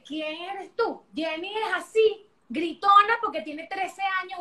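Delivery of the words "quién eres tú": slow self-questioning. Retold or imitated. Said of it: "Yo dije".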